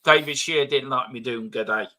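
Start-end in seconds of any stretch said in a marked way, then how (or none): 1.5-1.9 low mock Australian g'day; put-on Aussie greeting, pitched down; badly faked Australian hello; bad Aussie accent. Shown as a demonstration. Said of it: "in a bad Aussie accent".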